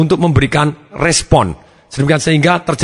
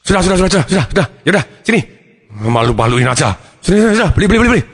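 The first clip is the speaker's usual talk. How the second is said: embarrassed father; 3 semitones higher, much faster than usual. Acted. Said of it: "Papanya malu".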